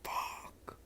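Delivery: high strained pain cry; mock pained scream. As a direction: squeal about his hands, hammed up. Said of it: "Monoma screaming in pain".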